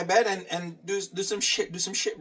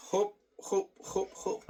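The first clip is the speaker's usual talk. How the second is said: whispered counting; 10 dB quieter than usual. Real, not acted. Counting reps under breath.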